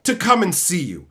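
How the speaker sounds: high, slow dripping sarcasm; sarcastic agreement. Retold or imitated. Mocking the manager's locked-door rule, sarcastic. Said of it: "And I'm like".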